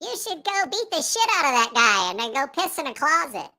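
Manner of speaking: a hint of a devilish inner voice; egging you on to trouble; Jameson inner voice. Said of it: "that's what Jameson sounds like in my head".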